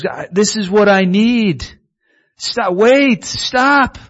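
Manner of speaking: put-on man calling to the girls, high and eager; retold shout. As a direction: call after them, desperate to stop them. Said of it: "he screamed out to the girls".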